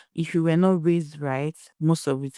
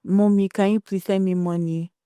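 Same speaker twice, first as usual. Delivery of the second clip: pleading daughter; 4 semitones higher than usual. Retold or imitated.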